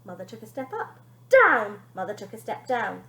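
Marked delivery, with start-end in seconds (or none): 1.3-1.8 loud alternating shouts. Acted. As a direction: shout the orders. Shouting match continues.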